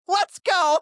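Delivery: loud, high shout of triumph; pumped-up retold yell; excited cheer. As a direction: fire it out like you're ready to win. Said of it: "I'm like".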